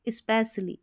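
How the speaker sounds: "specially" as is-pes-lee; wrong S sound. Shown as a demonstration. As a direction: put s for sh in "specially". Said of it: "ऐसे भी नहीं". ("specially" में श की जगह स)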